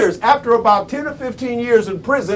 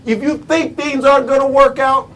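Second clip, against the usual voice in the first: raised setup; 3 semitones higher than usual. Real, not acted. Speaker posing a second condition to listeners, raised. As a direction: lift the phrase and hold it open. Sets up a contrast in two halves.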